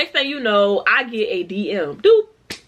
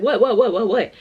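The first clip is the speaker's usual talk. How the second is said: eager laughing question; 3 dB louder than usual. Retold or imitated. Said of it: "And I'm like".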